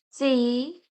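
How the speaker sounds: C said as "say"; French C, "sé" with a pure vowel; French letter C. Shown as a demonstration. Teacher showing the French alphabet, C said "say". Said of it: "C is pronounced as".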